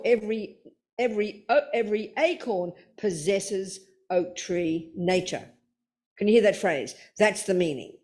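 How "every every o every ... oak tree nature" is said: deliberate phrasing. Shown as a demonstration. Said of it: "we don't talk like this".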